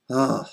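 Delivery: weary, disgusted sigh of "ugh"; exasperated groan. Real, not acted. Embarrassed to explain science to adults, exasperated groan. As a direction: let out a fed-up groan. Fed up after science rant.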